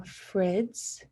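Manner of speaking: "frids" ending in DS instead of DGE; disordered frids. Shown as a demonstration. Student demoing a speech error, "frids" with DS. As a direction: say "frids" with a buzzing DS end. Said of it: "saying frids instead of fridge".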